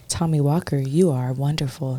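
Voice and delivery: lightly voiced soothing affirmation read; a hint of a gentle guide reading affirmations; her affirmation voice. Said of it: "Just like that in that voice".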